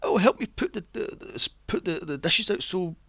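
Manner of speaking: put-on high, bossy girl voice; mocking Misty. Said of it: "she's like".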